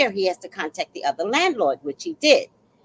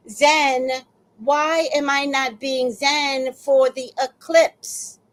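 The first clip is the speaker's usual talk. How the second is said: higher, emphatic mock lament; hammed-up appeal to the heavens, stretching the last question; exasperated plea; 3 semitones higher, slower than usual. Tenant asks God what happened to her zen, exasperated.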